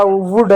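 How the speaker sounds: "वुड" with a short u; short OO vowel. Shown as a demonstration. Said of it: "छोटा". ("वुड" में छोटा उ बोलें)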